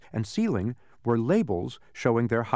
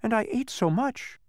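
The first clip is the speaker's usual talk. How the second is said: very high plaintive character voice; complaining; 12 semitones higher than usual. A narrator's reading. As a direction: moan about it, pitched way up. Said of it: "complained Milo".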